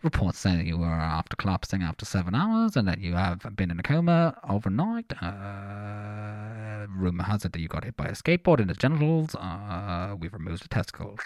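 put-on a mild English accent drifting toward Australian, pilot style; English doctor accent. Host voicing a doctor, mild English accent slipping to Australian. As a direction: read the bad news like an English pilot-doctor. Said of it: "English accent to an Australian accent".

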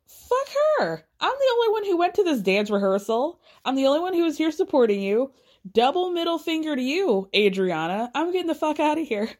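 high-pitched indignant rant; mock outrage. Kiki telling off Adriana after the rehearsal, mock indignant outburst. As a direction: pitch it way up, imitating an offended castmate. Retold angry outburst before storming out.

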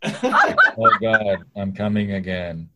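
mock orgasm through laughter; laughing fake climax. Friend mocks Kathleen's bored fake orgasm, laughing. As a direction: fake it while cracking up. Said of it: "Kathleen pretending to come".

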